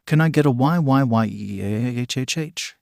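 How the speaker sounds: rally the listeners with a stretched YEAH; radio host milking a crowd cheer; hyped radio call. A narrator's reading.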